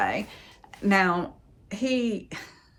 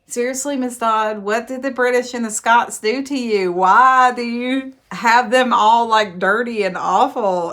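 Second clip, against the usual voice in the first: exasperated rant; 3 semitones higher, 6 dB louder than usual. Real, not acted. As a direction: vent at the author in disbelief. Ranting at the author.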